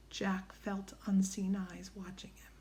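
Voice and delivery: hushed eerie whisper. A narrator's reading. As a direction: breathe it, as if watched.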